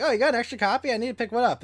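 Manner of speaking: high, eager question; bright, hopeful ask about the copy; excited. Retold or imitated. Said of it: "I was like".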